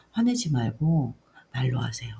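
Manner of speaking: put-on understated, subdued child's plea; retold child's appeal. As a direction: retell a child gently asking mom. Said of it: "다시 이렇게 하면서".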